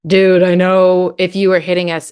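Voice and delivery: put-on match the child's intensity, mildly. Shown as a demonstration. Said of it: "match the intensity".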